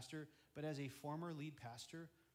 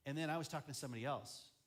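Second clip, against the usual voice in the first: ordinary talk, nothing marked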